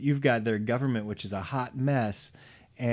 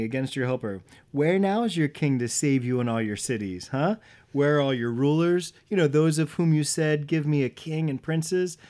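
higher and louder, a mocking, taunting read; taunting God; 4 semitones higher, 3 dB louder than usual. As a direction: rub their noses in it, taunting them. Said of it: "this is God taunting him".

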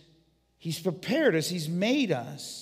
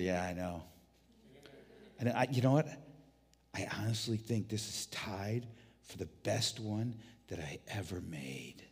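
softer, lower satisfied reply; 7 semitones lower, 9 dB quieter than usual. Acted. Jesus answers the angels.

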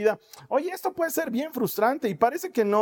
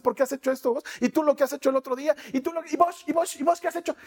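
squabbling; 5 semitones higher, faster than usual. Retold or imitated. Imita discusión entre hermanos.

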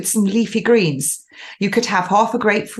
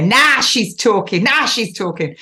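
put-on northern accent; 3 semitones higher than usual. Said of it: "did you like my northern accent there".

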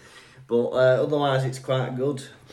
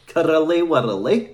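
slow, drawn-out Edinburgh accent; put-on Edinburgh brogue, stretched out; 3 semitones higher, 4 dB louder, slower than usual. Shown as a demonstration. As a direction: relish every syllable in a Scottish accent. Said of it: "Edinburgh accent".

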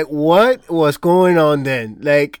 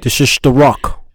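put-on lightly done Scottish Connery accent, low-key; a hint of Connery in The Rock; Sean Connery impression; 3 semitones lower than usual. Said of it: "that's my favorite".

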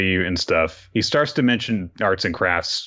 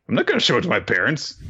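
quick retort; 5 semitones higher, much faster than usual. Retold or imitated. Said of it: "Damien's like".

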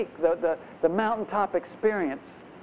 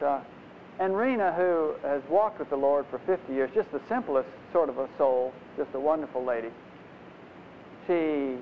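ordinary delivery

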